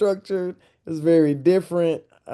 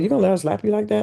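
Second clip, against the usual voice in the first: mock the doubters; imitating skeptics; 7 semitones higher, much faster than usual. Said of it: "some people were like".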